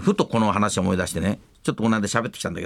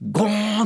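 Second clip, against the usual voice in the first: higher mock clunk noise; imitated bonk; 10 semitones higher than usual. Retelling the head hitting the display glass, mock bonk. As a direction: ring it out like a bell. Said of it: "ガラスに頭をつけて".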